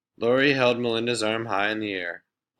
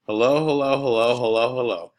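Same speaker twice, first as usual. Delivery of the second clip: mocking; 4 semitones higher, 5 dB louder than usual. Laurie mocking Jeff.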